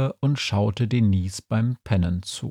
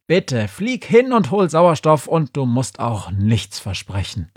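raised, pleading outburst, easing at the end; exasperated shouting; 4 semitones higher, 3 dB louder than usual. Acted. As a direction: cry out in surrender, higher pitched. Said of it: "schrie er".

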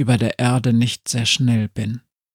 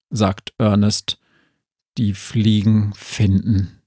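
zombie; 2 semitones lower than usual. Acted. Zombie figure continues.

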